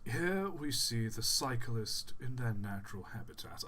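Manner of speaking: mild nature documentary narrator voice; a hint of a wildlife narrator; BBC documentary narration. Shown as a demonstration. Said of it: "give it a proper, like, B B C documentary narration".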